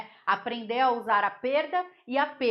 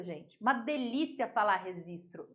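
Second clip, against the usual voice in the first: ordinary delivery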